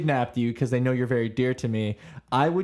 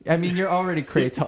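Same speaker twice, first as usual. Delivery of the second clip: robotic; 4 semitones higher than usual. Real, not acted. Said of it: "You said that like a computer".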